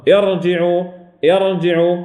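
ارجعوا with a thick, full r; heavy ra. Shown as a demonstration. Teacher modelling the rule for students, heavy ra in ارجعوا. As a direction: dwell on a velarized ra in ارجعوا. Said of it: "هذه الراء مفخمة".

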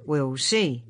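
a grim reply. A narrator's reading. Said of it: "said Ben grimly".

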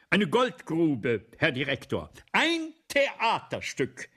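loud, slow, rising to a high cry; excited cry. Acted. Balzac pitching his play to the director, loud and eager. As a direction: sell the play like a gold mine. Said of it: "rufe ich".

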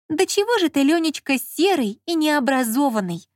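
high-pitched, lamenting reproach; exasperated sigh. A narrator's reading. Lola despairs of ignorant Lyonya, sighing. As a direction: bemoan his ignorance, pitch falling gradually. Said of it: "вздохнула Лола".

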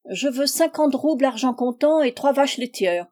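harsh tone. A narrator's reading. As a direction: state your terms in a rough, haughty tone. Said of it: "proféra la demoiselle d'un ton rêche".

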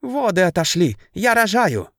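high panicked cry; a mild mock shriek of labor starting; hysterical scream. A narrator's reading. Ganga cries out to the sisters, mildly hysterical. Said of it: "истерично закричала Ганга".

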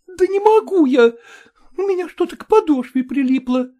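put-on complaining girl. A narrator's reading. Nadin complains to the officer, high and whiny. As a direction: complain about the stuck shoe.

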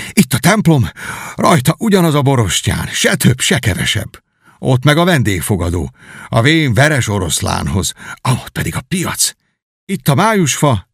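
lightly voiced knight, eager and wistful; nostalgic Miles. Returning knight pointing out his old village, lightly voiced. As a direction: point out every old landmark fondly.

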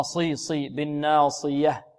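"صي" and "بالناصية" with heavy, emphatic s, slowly; heavy saad. Shown as a demonstration. Teacher drills the heavy letter, "بالناصية" slow with emphatic s. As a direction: thicken the s in "صي" and "بالناصية". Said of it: "مفخمة".

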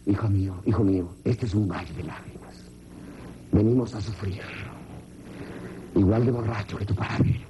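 a mother sighing that life is a valley of tears; a mother telling her little son life is suffering; lamenting mother. Retold or imitated.

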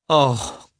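on the edge of tears; a hint of weeping young woman; crying out. A narrator's reading. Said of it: "she cried, and began to weep".

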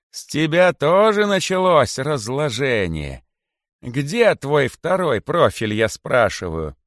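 high, slow scolding; scolding king. A narrator's reading. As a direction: demand an answer. (царь строго отчитывает)

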